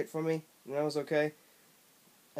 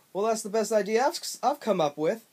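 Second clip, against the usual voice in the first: high, loud cartoon bobcat voice; smug, brash and pitched way up; obnoxious Bubsy voice; 5 semitones higher, 3 dB louder than usual. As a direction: ham up an obnoxious cartoon cat. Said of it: "had the most obnoxious voice I've ever heard".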